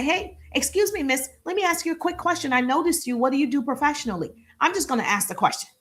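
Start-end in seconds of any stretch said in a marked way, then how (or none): 0.0-4.3 bright, high "Excuse me" to a stranger; polite approach voice. Shown as a demonstration. Coach shows how to greet a woman, polite and high. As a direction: open politely and a bit high. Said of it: "I get to say".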